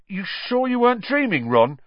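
high-pitched doubtful question; skeptical boy. Acted. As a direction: question him with disbelief. Skeptical roommate asks.

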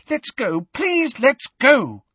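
very high, terrified plea; high-pitched and terrified. A narrator's reading. Hermione begging Hagrid to leave, terrified. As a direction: plead in panic, rising and stretching it. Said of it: "in a high-pitched and terrified voice".

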